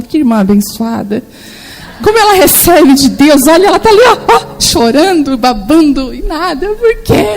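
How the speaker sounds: rising, amused church gossip voice ending in a laugh; hammed-up onlookers marvelling at the weeping sister; mock admiring onlookers. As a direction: play the impressed brethren, then crack up. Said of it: "Eles pensando".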